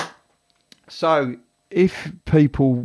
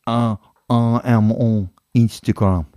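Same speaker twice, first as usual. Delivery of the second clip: put-on French accent. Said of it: "can you talk about Instagram in a French accent".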